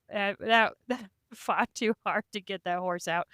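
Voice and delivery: amused, laughing through the words. Real, not acted. Rider explaining to host why they redrew, laughing. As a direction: chuckle as you tell it. Laughs over retold refusal of horse.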